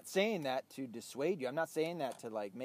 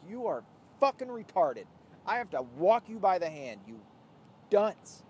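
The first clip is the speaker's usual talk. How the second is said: retort; 4 semitones higher, 9 dB louder than usual. Retold or imitated. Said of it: "And it's like".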